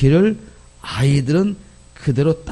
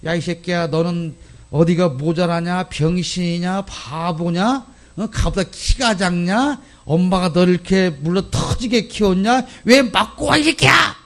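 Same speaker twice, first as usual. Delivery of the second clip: parent scolding; 4 semitones higher, 4 dB quieter than usual. Retold or imitated. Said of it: "그러면 뭐라 그럽니까?".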